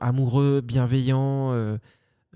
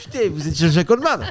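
excited fan; 4 semitones higher, 5 dB louder than usual. Pretend. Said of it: "Les gens qui te reconnaissent".

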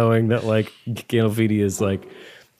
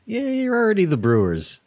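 mock sarcastic fan; 9 semitones higher than usual. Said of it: "to have another boozy joke is like".

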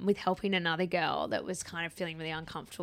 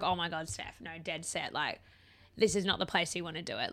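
hushed warning; 2 semitones lower, 7 dB quieter than usual. Retold or imitated. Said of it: "And I was like".

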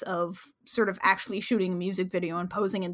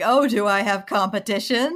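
gentle mock; 4 dB louder than usual. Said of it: "gently mock him".

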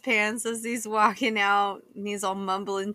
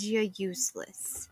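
whispered, cutting; whispered insult; 7 dB quieter than usual. Acted. Sheriff whispering to the fired deputy, whispered insult. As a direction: hiss the final insult under the breath.

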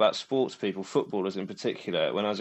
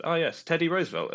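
imitating Campbell; 9 semitones higher than usual. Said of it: "and she then answered".

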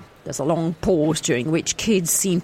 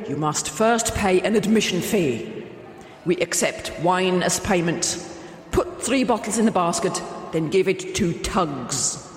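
booming voice from above. Acted. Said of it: "followed by the booming voice from above".

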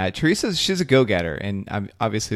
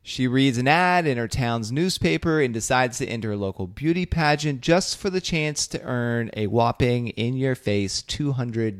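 breathless teasing blurb. Shown as a demonstration. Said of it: "I'm just doing the Stephen vibe".

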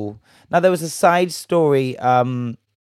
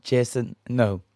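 attempted Bajan accent; 3 dB quieter than usual. Shown as a demonstration. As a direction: try the name in a Bajan accent. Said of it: "do a little Bajan accent".

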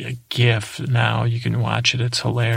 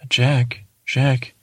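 flat, even monotone delivery. Retold or imitated. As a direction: say it all on one note. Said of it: "He would talk like that. He talked very monotone".

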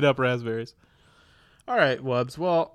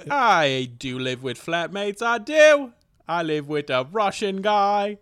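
exaggerated British, leaping high and loud; mock British with a soaring lilt; British accent; 4 semitones higher, 3 dB louder than usual. Shown as a demonstration. Guest answers about flatmates, hammed-up British accent. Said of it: "You're stuck in British".

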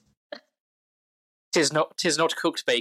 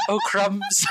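comic character voice; 7 semitones higher than usual. Acted. GM voicing the piggy character.

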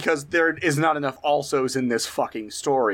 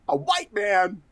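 put-on New Girl quote; 5 semitones higher, slower than usual. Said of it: "that clip from New Girl".

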